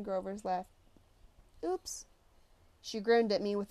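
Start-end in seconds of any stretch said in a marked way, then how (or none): 1.6-2.1 mock innocent oops. Nancy mocks after dumping lunch.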